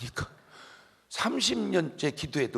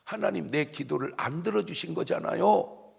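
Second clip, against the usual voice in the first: mild protest to God, rising higher; 따지는 투; 4 semitones higher than usual. Retold or imitated. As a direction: playfully argue with God, pitch lifted. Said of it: "하나님께 따졌어요". (하나님께 살짝 높은 소리로 따지듯)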